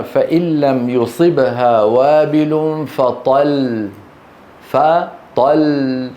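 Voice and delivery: فطل ended on a single light lam, very slow, showing the wrong stop; stopping with one lam. Shown as a demonstration. Teacher to students, showing the faulty stop on فطل. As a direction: slowly read فطل with one lam dropped. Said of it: "كم لام؟ واحدة".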